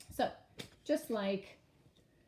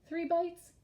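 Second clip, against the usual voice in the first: "three bites?" much higher and louder, disbelieving; doubtful question; 11 semitones higher, 5 dB louder than usual. Shown as a demonstration. Teacher doubting a wrong answer aloud. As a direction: ask it in mock surprise. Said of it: "I don't think that really makes".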